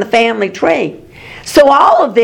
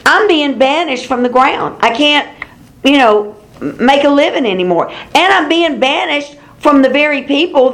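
whining, a little higher; mock whine; 4 semitones higher than usual. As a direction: complain like a self-pitying child, higher. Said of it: "look at his whines".

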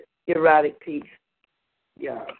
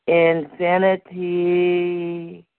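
passionate cry; 3 semitones lower, much slower than usual. Acted. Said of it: "I yelled passionately".

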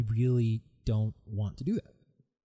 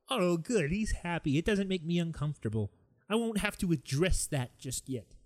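lightly mocked relief, raised pitch; relieved onlooker; 4 semitones higher than usual. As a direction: imitate a self-satisfied onlooker. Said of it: "then people are like".

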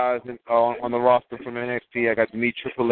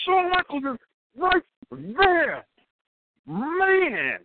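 high, starstruck announcement; can barely believe who he's seeing; retold excitement; much slower than usual. Telling his driver who is in the room: high, starstruck excitement. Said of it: "Calm down".

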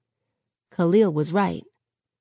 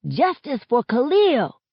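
higher, chanting street cry; protest shout; 7 semitones higher, 3 dB louder than usual. A narrator's reading. Kids on top of a car in protest, shouted chant. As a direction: call it out like a protester. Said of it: "as they shout".

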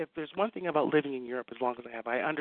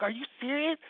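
high-pitched incredulous question; can't believe it, rising; astonished; 10 semitones higher than usual. Retold or imitated. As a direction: teller reacting to the assistant, astonished. Retold own astonished reply.

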